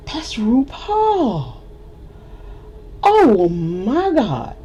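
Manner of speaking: slow, breathless starstruck whisper; awed whisper. Retold or imitated. Narrator seeing RuPaul walk out, awed whisper. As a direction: gasp it out in awe.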